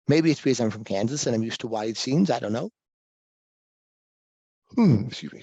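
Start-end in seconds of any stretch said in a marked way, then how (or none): 4.7-5.4 talking through a yawn; mid-yawn, stretched words. Real, not acted. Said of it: "sorry, I'm yawning".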